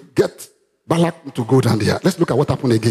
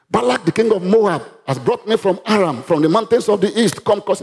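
higher chanted oracle voice; Balaam's oracle, higher and chanted; incantation; 5 semitones higher than usual. Acted. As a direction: intone it like a diviner's spell. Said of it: "he's doing incantation".

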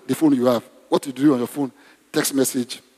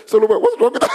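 higher, breaking into laughter; laughing; 5 semitones higher, 4 dB louder, faster than usual. Real, not acted. Preacher retelling a phone mishap, laughing. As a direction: laugh through the question.

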